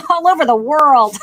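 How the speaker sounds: laughing through the words; light self-amused laughter. Real, not acted. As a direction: giggle as you say it. Laughs at her own remark.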